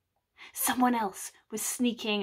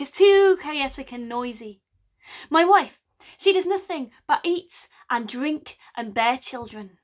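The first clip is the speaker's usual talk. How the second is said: louder, put-upon whine about his wife; whining complaint; 5 dB louder than usual. Acted. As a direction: moan like a henpecked husband.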